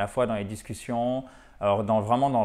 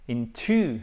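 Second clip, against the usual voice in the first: slow English model for learners; measured, stretched stressed syllables; careful model reading; 2 semitones lower, slower than usual. Shown as a demonstration. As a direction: read it out slowly and distinctly. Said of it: "il faut bien faire attention".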